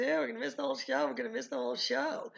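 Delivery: high, quick fretful whine; acted dog's panic. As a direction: fret as the anxious dog. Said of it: "this is what the dog is thinking".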